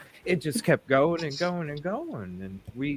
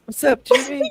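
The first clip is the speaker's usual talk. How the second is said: parrot voice; 12 semitones higher, 6 dB louder than usual. Pretend. Parrot voice joke.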